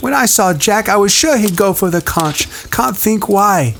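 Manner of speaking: put-on high whiny boy; fretting schoolboy; Piggy voice. A narrator's reading.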